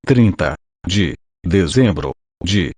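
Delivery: robotic synthesized voice reading. Real, not acted. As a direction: computer text-to-speech voice. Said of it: "com voz sintetizada".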